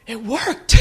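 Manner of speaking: loud, high burst of delighted disbelief; astonished, triumphant shout; amazed triumph. Retold or imitated. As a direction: exclaim it like a wish come true. Retells amazed realization on the plane.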